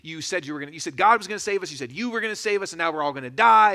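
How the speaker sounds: mock angry crowd, building to a loud shout; hammed-up furious Israelites shouting at Moses; angry mob. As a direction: blame Moses, rising up to a yell. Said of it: "They're mad at Moses".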